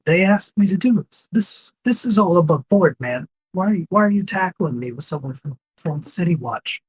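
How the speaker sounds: high-pitched, lightly voiced orc; imitation orc. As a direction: protest as a put-on orc. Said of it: "in this imitation of an orc's voice".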